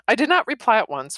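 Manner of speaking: usual speaking voice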